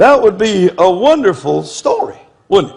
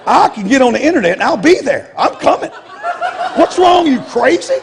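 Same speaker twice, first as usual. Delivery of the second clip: pitched-up, fast confrontational comeback; retorting angrily; 6 semitones higher than usual. Retold or imitated. Preacher retelling his reply to a hostile caller, heated and pitched up. Retold angry phone call with pastor.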